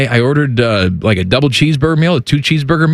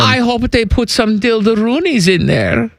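put-on German accent. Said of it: "that's right, Wolfgang".

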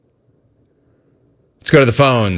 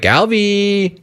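high, drawn-out singsong summons; calling out; 7 semitones higher than usual. Retold or imitated. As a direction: imitate calling a helper over in a high voice. Host re-enacts calling Alvin for help.

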